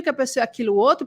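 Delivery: normal talking voice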